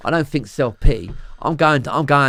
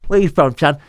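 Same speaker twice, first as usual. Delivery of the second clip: Cockney; 4 dB louder than usual. Shown as a demonstration. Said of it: "But I was mainly Cockney".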